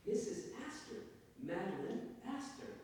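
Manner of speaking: high-pitched lady repeating her name; society lady. Acted. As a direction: coach a parrot on your name.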